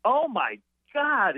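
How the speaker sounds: drawn-out, high comic outcry; Gilbert Gottfried. Retold or imitated. Comedian reacting to bad news on the phone, worst imitation. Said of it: "I will do the worst imitation".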